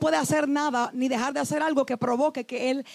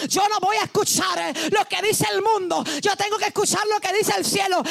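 raised, resolute believer's vow; voicing the devoted believer; 4 semitones higher than usual. Preacher voicing a believer, resolute raised vow. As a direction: declare it like a firm personal vow. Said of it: "hay alguien que ha decidido".

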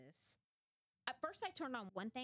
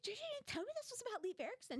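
much higher, thrilled exclaim; excited outburst; faster than usual. Retold or imitated. Wife rushing in to tell husband, thrilled and higher. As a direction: run in bursting with news. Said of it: "I was like".

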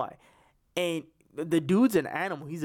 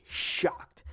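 breathy whispered punchline; whispered shocked. Real, not acted. Fan insisting the manager will be sacked, in a whisper. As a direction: whisper the word to drive it home. Emphatic one-word repeat of opinion.

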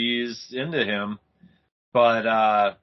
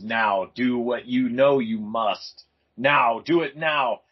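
slow, louder hypnotic command; commanding Dracula; 5 dB louder, slower than usual. Retold or imitated. Dracula hypnotizing Mei Li, slow louder command. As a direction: order her slowly, spelling it out.

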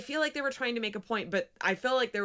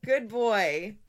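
high, slow, cooing dog voice; 4 semitones higher, slower than usual. Real, not acted. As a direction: coo at the dog slowly. Talking to the dog.

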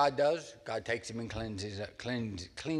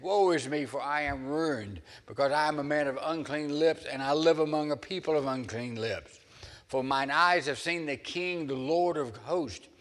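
anguished cry; 4 semitones higher, 4 dB louder than usual. Acted. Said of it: "Then I said".

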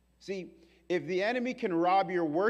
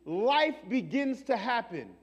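slow, louder, higher proclaiming God; 6 semitones higher, 7 dB louder, slower than usual. Retold or imitated. God to believers, slow loud proclamation. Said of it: "And God is like".

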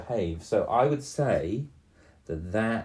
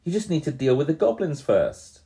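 tempting voice; 6 semitones higher, 6 dB louder than usual. Acted. Tempting about treasure.

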